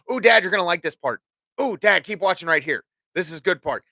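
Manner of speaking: eager, fast daughter voice; lightly voiced excited kid; imitating daughter. Dad retelling his daughter pestering him during a show, eager. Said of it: "proceed to tell me".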